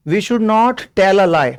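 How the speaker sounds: very slow, word by word; slow dictation. Shown as a demonstration. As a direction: read it out slowly so students can write. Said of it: "teacher dictates". (धीरे-धीरे लिखवाते हुए)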